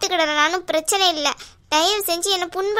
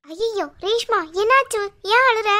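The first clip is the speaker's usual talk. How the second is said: raised-pitch worried questions; anxious, rising alarm; alarmed concern; 2 semitones higher than usual. Acted. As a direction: react with sudden concern for someone crying. Alarmed on finding Reshma crying.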